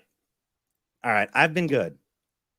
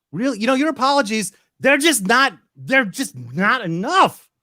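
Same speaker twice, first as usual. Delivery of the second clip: raised, heated complaint, higher and louder; angry rant; 5 semitones higher, 4 dB louder than usual. Acted. Husband berating his apologising wife, heated rant. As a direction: scold her, building anger. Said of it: "his character is screaming".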